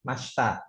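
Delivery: mashita said as "mashta", no i; silent i. Shown as a demonstration. Teacher showing how mashita is read, silent i. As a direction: drop the i in mashita. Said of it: "i-nya nggak dibaca".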